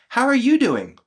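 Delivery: high-pitched, solicitous question; eager concern for partner; caring check-in. Acted. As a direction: offer help with lifted, attentive voice. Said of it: "I would also be like".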